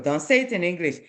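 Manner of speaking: ordinary delivery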